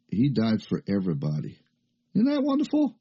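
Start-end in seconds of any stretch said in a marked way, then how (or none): 2.1-2.9 high, delighted cry; soaring delighted question; joyful exclamation. Real, not acted. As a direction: burst up with joy at the good news. Preacher exults over good news.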